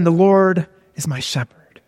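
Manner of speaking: measured scripture reading; first slow reading. Shown as a demonstration. Preacher demonstrating how to read a psalm, first slow reading. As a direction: read the verse out simply, unhurried. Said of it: "So you read".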